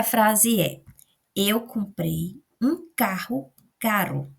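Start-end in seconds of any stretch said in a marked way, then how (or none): 1.4-4.3 slow careful reading of "carro caro"; teacher reading the sentence clearly; example sentence read slowly. Shown as a demonstration. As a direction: read "Eu comprei um carro caro" slowly, contrasting strong RR in "carro" and tapped r in "caro". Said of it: "Olha a diferença".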